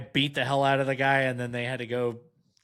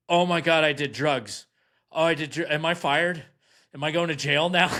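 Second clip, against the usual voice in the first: higher, panicky babbling with a laugh; mock panic, voice pitched up; panicked; 4 semitones higher than usual. To the cops after waking, mock panicked pleading.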